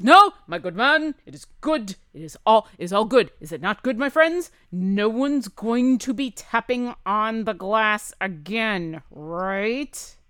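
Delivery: loud, hearty showman reassuring the crowd; smooth it over with a big show voice; Waylon's voice. Acted. Waylon loudly assuring the gentleman that all is good. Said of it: "And Waylon says".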